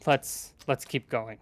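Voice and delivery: slow words through a mouthful; mouth full. Acted. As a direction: talk around chewed meat. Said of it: "I say, with mouthful".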